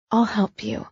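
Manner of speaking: woman whispering comfort to her injured partner; whispered offer. Acted. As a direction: breathe it gently to him. Tender whisper to hurt man.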